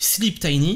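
poor French accent in English.

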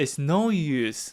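heavy stress leaning on the word "no". Teaching an English expression in a Korean lesson: stress on no. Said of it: "no의 강세쯤에서".

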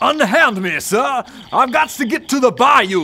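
put-on Creole-accented speech. Retelling what they said when someone from marketing found them in the bathroom, in a Creole accent. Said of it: "speaking in a Creole accent".

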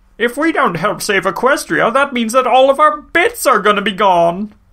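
lousy, badly overdone, very high, squeaky cartoon salesman voice. Recapping an episode, the speaker quotes a line as a Flim Flam impression. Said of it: "That was my best Flim Flam impression".

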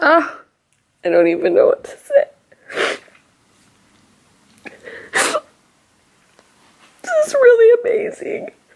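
very high, swooping, tearful happy crying. Coming home to flowers, notes and outfits laid out, crying happy tears. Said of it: "These are happy tears".

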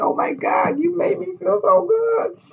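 mock tearful, babyish, high, blubbering sobbing voice. Retelling the reaction to the bag she sent, retelling crying like a baby. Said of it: "crying like a little baby".

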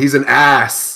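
sudden loud, high-pitched shouted yell. Walking into a smoky forge, the character calls out from within the flames, yelling. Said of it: "I just yelled".

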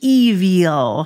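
loud, drawn-out, dim, wicked silly villain voice. Retelling how a man from a meeting said the prayer's last word: stupid wicked voice. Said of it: "in this stupid, wick way".

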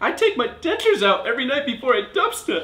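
character voice with pitch pushed very high. Reading a phrase card in a game, in the first accent: Pennywise voice. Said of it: "I'm gonna go with Pennywise".

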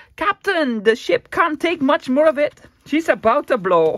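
very loud, high, put-on Scottish accent. Closing a video about a nearly full journal: Scotty impersonation. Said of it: "That's my Scotty impersonation".

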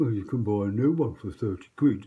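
loud, scoffing, heavily sarcastic. Explaining a thermal fuse and thermostat, retelling someone's comment, imitating someone sarcastic. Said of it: "Someone sarcastically said".

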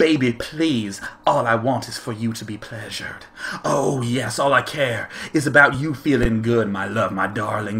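low, soft, sultry, seductive voice. Telling a story about himself being in love, in a sultry, sexy voice. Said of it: "Let's put on the sultry, sexy voice".

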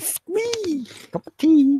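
playful, very high squeal.

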